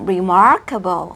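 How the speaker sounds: "remarkable" with heavily curled R, stretched MAR; exaggerated R sounds in "remarkable". Shown as a demonstration. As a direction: curl the tongue hard on R in "remarkable". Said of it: "เราห่อลิ้นเว่อร์ไปก่อน".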